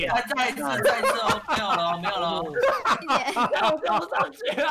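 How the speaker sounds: laughing frustrated cries. Real, not acted. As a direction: laugh through the failure. Failing jump, laughing. (笑着抱怨)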